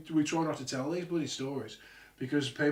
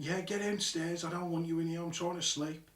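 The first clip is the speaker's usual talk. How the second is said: higher, mildly exasperated complaint; imitated irritation; 3 semitones higher than usual. Dad in bed telling lads off, mild retold irritation. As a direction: play dad wanting to be left alone.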